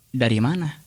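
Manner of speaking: a wary, probing "Dari mana?"; doubtful questioning tone; suspicious. Shown as a demonstration. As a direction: ask "Dari mana?" like you suspect them. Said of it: "eh, curiga".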